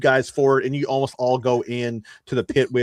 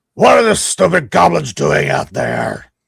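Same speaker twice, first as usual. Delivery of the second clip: loud, rough, guttural, pitched-up goblin shout; 5 semitones higher, 5 dB louder than usual. Voicing an unseen character calling out from off-scene, in a loud guttural voice. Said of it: "you hear a loud guttural voice like".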